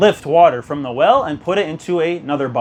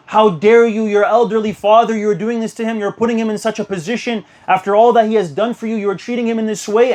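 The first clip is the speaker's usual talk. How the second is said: louder, higher, berating the son as the sheikh; retold angry yelling; 5 semitones higher, 4 dB louder than usual. Sheikh confronting the son who tied up his father, angry retold yelling. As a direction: voice the sheikh scolding the son, not quite full force. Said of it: "He began yelling at him".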